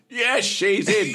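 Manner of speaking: loud, high, slow yell at the door; mock shout. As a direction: holler it as if calling your mum. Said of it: "you shout at them".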